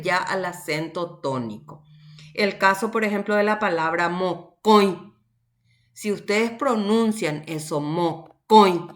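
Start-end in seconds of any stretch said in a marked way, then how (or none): 4.1-5.1 "mocoy" with the stress on a nasal O. Shown as a demonstration. Teacher showing students where the accent falls in "mocoy", nasal stressed O. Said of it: "la fuerza de la pronunciación recae sobre la O". 7.8-8.9 "mocoy" with a forceful, nasal O; nasal stressed O. Shown as a demonstration. Teacher demonstrating a word to students, "mocoy" with nasal stressed O. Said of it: "la fuerza de la pronunciación recae sobre la O".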